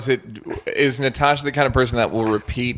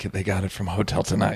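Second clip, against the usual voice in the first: hushed, lower aside; mock whispering; 4 semitones lower, 6 dB quieter than usual. Hotel staff gossiping about the guests, mock whispering. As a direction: drop it to a gossipy undertone. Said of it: "they're whispering like".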